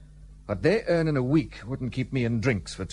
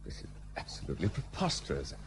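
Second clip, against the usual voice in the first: muttered aside; 7 semitones lower, 11 dB quieter than usual. Acted. Muttering while she changes.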